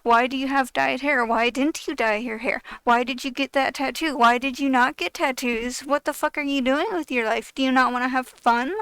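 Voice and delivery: loud, mock interrogation; judgmental badgering. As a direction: fire off accusing questions, loudly imitating a busybody. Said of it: "go over to you and be like".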